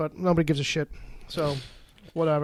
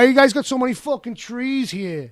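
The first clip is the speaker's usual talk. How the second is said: complaining Brooklyn transplant; 3 semitones higher, 4 dB louder than usual. Retold or imitated. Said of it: "So it's like".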